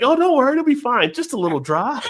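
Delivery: high, hammed-up tearful voice; mock crying. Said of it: "and she starts crying".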